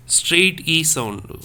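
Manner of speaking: teacher stretching "straight E sound" for students; drawn-out teaching E. Shown as a demonstration. Teacher modelling the E vowel to students, slow and loud. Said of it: "So this".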